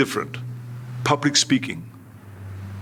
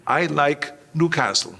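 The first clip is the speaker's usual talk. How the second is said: a lightly voiced Reg Park feeding the line "I like Newcastle"; whisper-prompt a friend, brisk and even.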